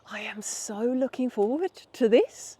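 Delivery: breathy, eager whisper to herself; excited whisper. Retold or imitated. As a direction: whisper it like a treat is coming. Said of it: "I just smell the coffee and I'm like".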